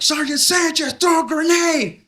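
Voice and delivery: high, loud, slow order; mock officer order. A soldier orders Sanchez to throw a grenade, high and loud. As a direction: bark it like a mock commander. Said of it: "They're like".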